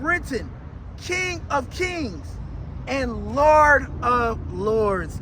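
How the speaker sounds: drawn-out, emphatic scripture proclamation; forceful preaching. Acted. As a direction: proclaim each phrase with weight, pausing between.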